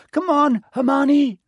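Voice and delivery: high loud call upward. A narrator's reading. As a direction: shout up for her to follow. Calling her to jump down.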